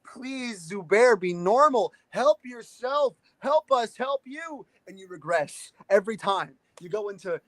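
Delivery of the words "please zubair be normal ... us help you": mock pleading. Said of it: "I'm desperately pleading for you".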